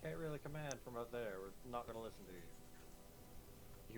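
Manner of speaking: loud defiant challenge. Acted. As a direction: stand up to the leader. In-character argument.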